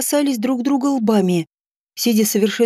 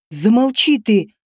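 shouted; slower than usual. Acted. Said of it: "вдруг заорал он".

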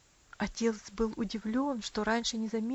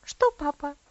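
slightly trembling; 4 semitones higher, 8 dB louder than usual. A narrator's reading. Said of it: "слегка дрожащим голосом".

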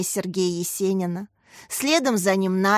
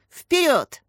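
calling out; 7 semitones higher, 3 dB louder than usual. A narrator's reading. Катя зовёт детей в парк.

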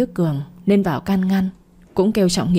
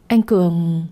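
a nervous stammer, caught off guard; slower than usual. A narrator's reading. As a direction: stammer his name, startled. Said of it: "miệng lắp bắp". (lắp bắp sợ hãi)

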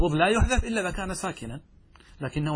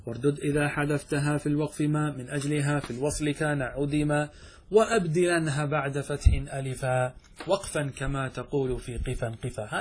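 verse recitation. Acted. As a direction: recite the verse at a steady even pace.

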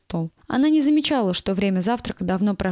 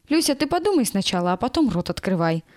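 plain reading voice

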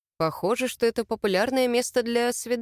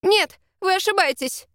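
high, louder frightened denial; exclaiming; 9 semitones higher, 3 dB louder than usual. A narrator's reading. Heroine cries out at the drunk stranger, high and loud. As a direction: cry out to break free. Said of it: "воскликнула я".

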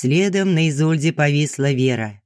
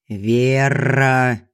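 rumbling call. A narrator's reading. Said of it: "пророкотала Изольда".

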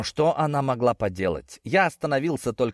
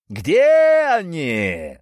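thunderous voice; 7 semitones higher, 8 dB louder, much slower than usual. Acted. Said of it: "второй похожий голос".

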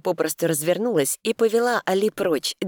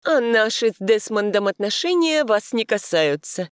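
high, chirpy and coy; chirping; 6 semitones higher, 3 dB louder than usual. A narrator's reading. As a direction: chirp it like a bird. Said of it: "прощебетала она".

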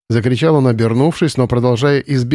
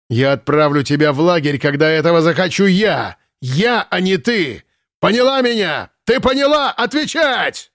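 climbing to a much higher shout; escalating rage; 6 semitones higher than usual. Acted. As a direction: build to a furious demand. Commandant rages at captive. (комендант кричит всё громче, в ярости)

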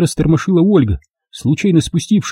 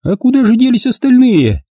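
high, brisk matter-of-fact question; businesslike; 10 semitones higher than usual. A narrator's reading. Olga coolly asking where the rest went, businesslike. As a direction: ask it in a businesslike way. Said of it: "деловито спросила она".

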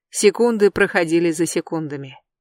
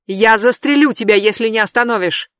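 loud, higher threatening shout; 4 semitones higher, 5 dB louder than usual. Acted. Jeb threatens Brandi with the rifle, shouting. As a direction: bark the threat over the gun. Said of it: "прокричал он".

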